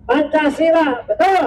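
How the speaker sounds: rousing shout. Real, not acted. Orator rousing the crowd.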